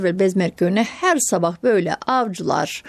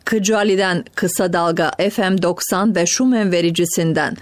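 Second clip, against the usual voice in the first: put-on old radio announcer. Formal broadcast frequency announcement.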